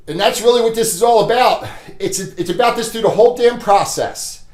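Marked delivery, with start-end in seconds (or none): none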